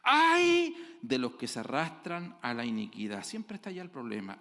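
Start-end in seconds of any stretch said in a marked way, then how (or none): 0.0-3.2 thundering preacher's lament; proclaimed prophetic woe. Acted. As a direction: cry out the prophet's lament to the congregation. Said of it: "Isaías dice".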